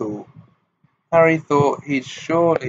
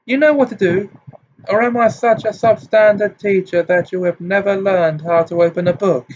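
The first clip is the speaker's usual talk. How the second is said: high, loud and bitterly sarcastic; high hysterical; 6 semitones higher, 4 dB louder than usual. A narrator's reading. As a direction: hurl the question up high, close to hysteria. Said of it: "her voice high-pitched and somewhat hysterical".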